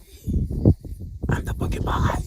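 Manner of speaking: secretive stage whisper; hushed porcupine. Acted. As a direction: keep it down so nearby lions won't hear. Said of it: "he doesn't want to say it loud".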